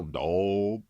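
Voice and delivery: lightly hammed Southern uncle, loud; loud one-word uncle impression; Southern uncle imitation. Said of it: "he would just go".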